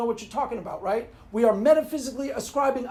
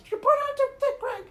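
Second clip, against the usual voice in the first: much higher squeaky voice; high mock scold. Pretend friend teasing Craig, high squeaky voice.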